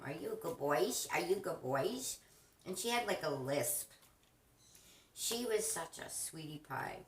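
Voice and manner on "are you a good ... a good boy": light lisping parrot impression; lisping bird voice. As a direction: chirp it with a lisp. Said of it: "she asked Bob".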